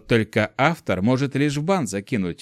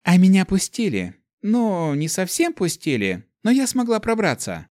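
put-on girl boasting; 7 semitones higher than usual.

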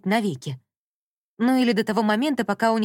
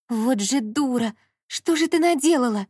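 inner voice lamenting; 5 semitones higher, 3 dB louder than usual. A narrator's reading. Inner voice berating herself, dismayed. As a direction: scold yourself in despair. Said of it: "сокрушался внутренний голос".

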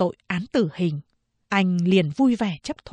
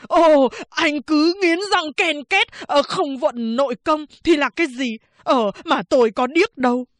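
shrill sarcastic barber; 6 semitones higher, 3 dB louder than usual. Acted. Barber retorts to the prisoner about grinding teeth, high and mocking. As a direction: needle him, rising high and loud.

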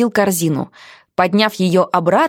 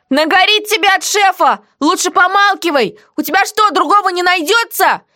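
heroine's quoted voice, higher; defiant heroine; 10 semitones higher than usual. Acted.

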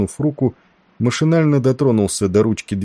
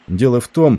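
higher, firmer start that stops short; broken off mid-sentence; 4 semitones higher, 4 dB louder than usual. A narrator's reading. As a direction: begin explaining, then cut off abruptly. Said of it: "Он умолк на полуслове".

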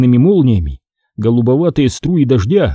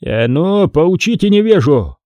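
higher-pitched, lightly acted order; commanding; 5 semitones higher than usual. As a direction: order your men to teach him. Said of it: "приказал князь". (повелительно, повышенным голосом)

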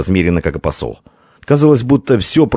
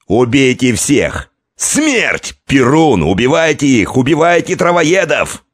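rally the warriors; battle cry; 7 semitones higher, slower than usual. A narrator's reading.

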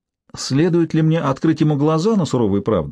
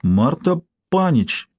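bewildered; much slower than usual. Acted. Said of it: "с совершенно растерянным видом".

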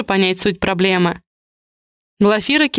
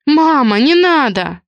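upset cry; 6 semitones higher, 3 dB louder, slower than usual. A narrator's reading. Daughter begging mother to stop.

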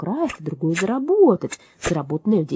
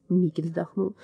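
ordinary delivery, nothing marked

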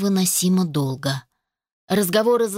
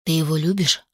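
blunt question; 2 semitones lower than usual. A narrator's reading. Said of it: "прямо в лоб ... спросил".

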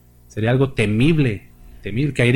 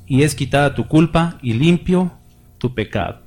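raised, declamatory Bible reading to the church; scripture reading; 3 semitones higher than usual. Acted. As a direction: read the vision like a proclamation from the pulpit. Reads Isaiah 6 aloud. (lectura bíblica declamada y elevada)

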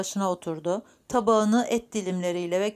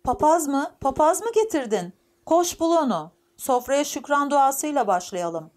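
put-on high, raised, excited old-woman voice; shrill grandmother; 7 semitones higher, 4 dB louder than usual. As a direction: pipe up shrilly and order them about. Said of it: "Büyük annenin tiz sesi yükseldi". (tiz, yükselen büyükanne sesi)

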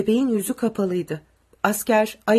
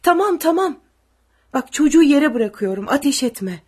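high, anxious placating; raised, frightened reassurance; trembling voice; 5 semitones higher, 7 dB louder than usual. A narrator's reading. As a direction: plead not to be shot, voice trembling. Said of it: "Titrek bir sesle".

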